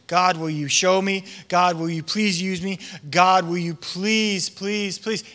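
repeated pleading, fading on the last pleases; praying. Acted. Saul praying for ten years, pleading and dwindling. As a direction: beg God, drawing out the first please. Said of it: "Saul praying for ten years".

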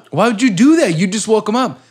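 high, laughing scold; mock doctor. Doctor in a comedy skit scolding the visitor, high and laughing.

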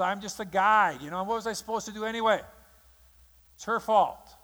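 mock a man shifting the blame; whiny excuse-making. Preacher playing David blaming Bathsheba, defensively.

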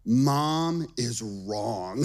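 put-on very slow, drawn-out little-boy verdict; sulky child, imitated. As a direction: drag each word like a pouting child. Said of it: "he said".

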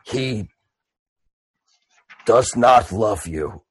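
very slow half-orc with long pauses; Boom Boom. Acted. Half-orc announces himself at the funeral, ponderous. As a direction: plod through it word group by word group. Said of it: "And he goes".

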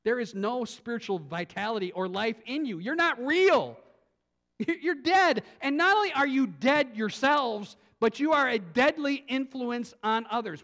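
mild, mounting accusation; indicting. Acted. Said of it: "Christ is the one indicting them".

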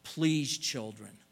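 a loud, earnest plea from a loving father; a father's heartfelt request; pleading parent. Retold or imitated. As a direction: beg the children to listen, loudly. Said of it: "Can you hear the Lord saying".

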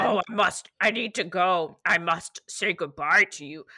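evil, fake seductive voice, loud; a strong, badly fake seducer, hammed up; Nephrite. Co-host acting out the villain's serious conversation, fake seductive voice. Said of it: "evil, strong, bad, fake seductive voice".

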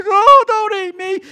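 high, loud whimpering plea; joking about being scared of dogs, mock fearful whine. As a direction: ham up a terrified plea. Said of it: "I'm gonna cry".

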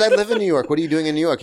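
high-pitched, incredulous daughter. Retold or imitated. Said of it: "She goes".

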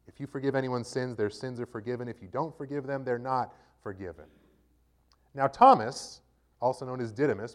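steady, measured Bible reading voice; scripture reading. A narrator's reading. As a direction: read the Gospel to the congregation, clearly.

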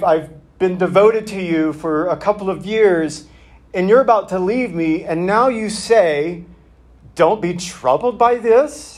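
a hint of a baffled follower protesting; disciple's complaint. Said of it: "it just kind of seems a little, like".

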